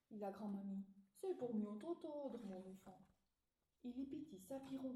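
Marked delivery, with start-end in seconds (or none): 1.2-3.1 big voice. Acted. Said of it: "Avec une grosse voix".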